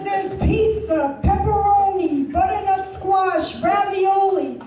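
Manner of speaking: a hint of a proud cheapskate boyfriend; cheap boyfriend voice. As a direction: sell the Costco samples like a feast. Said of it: "He says".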